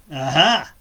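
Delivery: high, slow, drawn-out witch croon. Acted. Baba Yaga gloating over the spoons, high witch voice. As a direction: savour it like a greedy old witch. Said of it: "she touched the first one".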